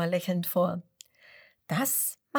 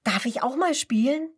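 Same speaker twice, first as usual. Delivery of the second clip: ungeduldig; 6 semitones higher, 3 dB louder than usual. A narrator's reading. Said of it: "ruft ungeduldig".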